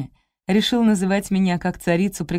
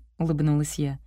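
ordinary delivery, nothing marked

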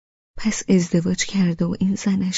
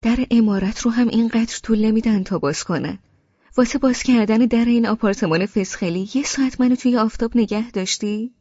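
higher, fed-up grumbling at the door; impatient complaint; 4 semitones higher than usual. Acted. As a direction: complain she kept you waiting in the sun.

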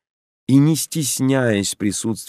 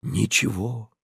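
ничего softer, dying away; fading echo; 6 dB quieter, slower than usual. A narrator's reading. Olesya repeating to her lover, fading ничего. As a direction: let ничего trail off quietly.

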